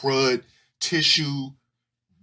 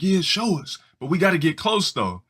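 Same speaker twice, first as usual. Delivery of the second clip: high mock kid voice; a higher, eager boy; 5 semitones higher than usual. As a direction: boys accept the tomboy's dare. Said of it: "It's like".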